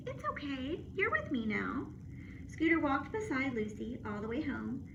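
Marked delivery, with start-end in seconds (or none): 0.1-1.9 gentle comfort; calm her frightened dog; reassuring girl. Acted. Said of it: "she said softly".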